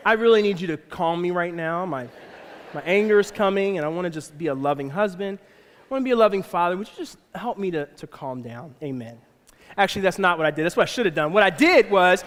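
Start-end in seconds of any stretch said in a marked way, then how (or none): 0.1-9.2 mock earnest prayer. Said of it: "I pray, and I'm like".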